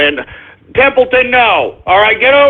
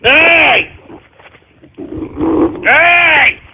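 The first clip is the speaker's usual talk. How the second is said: sharp higher calls of hey; sharp scolding hey; 5 semitones higher, much slower than usual. Real, not acted. Host scolding his snarling dog, sharp higher calls. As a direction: snap the dog out of it.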